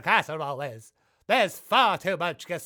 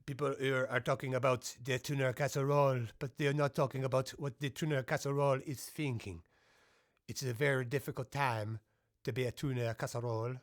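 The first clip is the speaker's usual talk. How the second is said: lower, softer grave musing; solemn hush; 7 semitones lower, 8 dB quieter than usual. Acted. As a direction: murmur it like a sombre documentary. Solemn low commentator.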